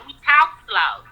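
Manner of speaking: slow, stretched out; slow family drawl. Shown as a demonstration. Explains to the host her family talks slow, slowly. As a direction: take your time over each word. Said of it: "A lot of people say I talk a little slow".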